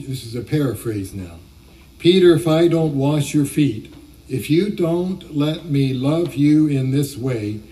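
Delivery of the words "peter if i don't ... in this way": firmly raised, carrying voice; Jesus speaking up before the disciples; loud enough for all to hear. Retold or imitated. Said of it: "says in a loud enough voice".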